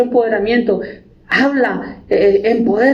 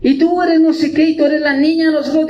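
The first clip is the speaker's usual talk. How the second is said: mock hyped encouragement; 5 semitones higher than usual. Mocking empowerment talk.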